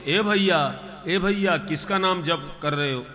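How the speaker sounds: a woman hailing a stranger; calling out. Acted. Lakshmi in disguise calls out. (ऊँची आवाज़ में पुकारना)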